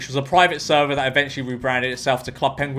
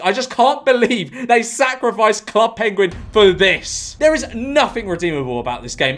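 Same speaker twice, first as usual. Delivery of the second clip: a little heated; 5 semitones higher than usual. Real, not acted. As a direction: lament it heatedly, dragging the words. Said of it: "I'm getting a little heated".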